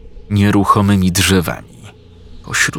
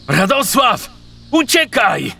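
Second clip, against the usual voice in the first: screaming at the top of his lungs, much higher; desperate yell. Acted. Wojciech screaming for Radosław to flee. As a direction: shout the warning with all your throat. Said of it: "wrzasnął na całe gardło Wojciech".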